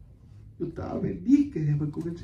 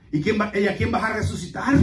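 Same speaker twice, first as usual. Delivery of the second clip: imitated scoffer's question, pitched up at the end; mocking; 4 semitones higher, 3 dB louder than usual. Brother questions who will be resurrected, mockingly. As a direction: lightly jeer as you quote him. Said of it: "lo dijo bien burlonamente".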